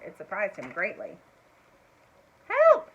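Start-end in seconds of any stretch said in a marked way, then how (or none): 2.5-2.9 high, loud cry for help; calling for help. A narrator's reading. Trapped mouse shouting to be let out. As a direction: yell it out, trapped in the dark. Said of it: "he called".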